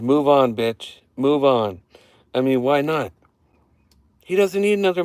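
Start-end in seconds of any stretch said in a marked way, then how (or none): 0.0-1.8 mock wrestler snarl.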